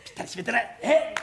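ordinary talk, nothing marked

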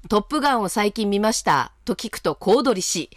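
はきはきと投稿を読み上げる; 区切りよく聞き手に読んで聞かせる; お便りの朗読. Acted. 投稿メールの朗読. (ラジオのお便り朗読)

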